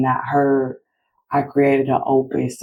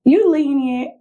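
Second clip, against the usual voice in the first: mimicking kids' answer; 12 semitones higher than usual. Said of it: "They both was like".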